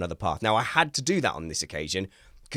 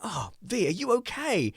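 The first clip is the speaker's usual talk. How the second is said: high, worried question to daughter; concerned father; 10 semitones higher than usual. Retold or imitated. Father pulling daughter out, high worried. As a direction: sound anxiously caring.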